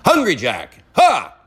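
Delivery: hammed-up commercial pitch, rising in pitch; fake ad read. Podcaster faking a potato ad for listeners, hammed-up salesman delivery. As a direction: pitch it like a cheesy ad, ending on a sharp "Ha!". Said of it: "That's not a real ad".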